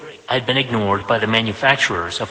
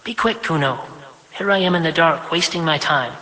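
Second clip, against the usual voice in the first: higher, prim voice of a self-important mother; higher, brisk mother granting her son five minutes; busy mother, briskly obliging; 5 semitones higher than usual. Acted. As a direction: fit your son into a tight schedule, higher. Vashti scolds her son.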